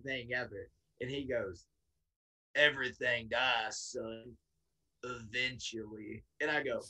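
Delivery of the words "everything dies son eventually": put-on ominous old bayou man. Bayou man, hand on shoulder.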